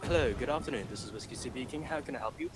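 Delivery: polite London phone greeting; London accent. Retold or imitated. Supervisor picking up the phone, London accent. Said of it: "changed the location of my accent from London".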